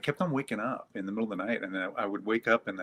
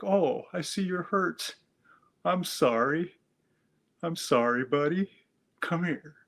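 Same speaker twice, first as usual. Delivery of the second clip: tender comforting; 5 semitones higher than usual. Retold or imitated. Man comforting his frightened inner voice, tender and soothing. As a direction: hold a hurt child with your voice.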